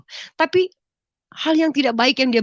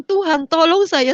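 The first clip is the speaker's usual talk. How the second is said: louder, slow cry for help; pleading prayer; 5 semitones higher, 5 dB louder, slower than usual. Retold or imitated. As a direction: beg God for help, slowly and louder. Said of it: "Saya cuma bilang".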